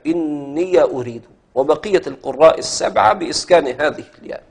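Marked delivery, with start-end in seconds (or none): 0.1-1.2 slow demo of "إني" as inni-ya before "أريد"; fatha on ya. Shown as a demonstration. Teacher repeating the example for students, slow fatha on ya. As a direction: draw out "إني", ending it on an open ya. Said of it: "هكذا".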